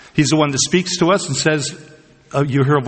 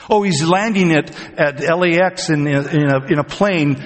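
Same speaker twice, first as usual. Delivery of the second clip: higher voice at first, easing down; mock excited rumor; 4 semitones higher than usual. Preacher imitates somebody reporting a sighting of Jesus, mock excited. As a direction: play an eager tipster passing on news. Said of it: "If you hear somebody saying".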